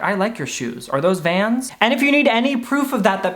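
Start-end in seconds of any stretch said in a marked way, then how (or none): 0.0-1.7 understated, genuine interest; sincere admission. Acted. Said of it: "When really, like".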